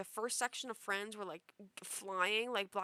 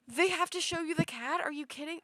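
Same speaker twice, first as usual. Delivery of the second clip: much higher and louder, are you kidding; exasperated disbelief; 7 semitones higher, 7 dB louder than usual. Retold or imitated. Dreamer scolding drunk friends about the cat, loud disbelief. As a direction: throw up your hands in disbelief.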